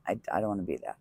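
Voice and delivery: dropped to a near mutter; quiet. Real, not acted. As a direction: say it again under your breath, to yourself. Quiet repeat of resolve.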